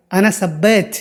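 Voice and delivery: "सब्बैत" said with "sab" at the start; wrong vowel. Shown as a demonstration. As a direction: say "सब्बैत" with a, not u, first. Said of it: "तो सब्बैत मत बोलना". ("सब्बैत" की शुरुआत सब से)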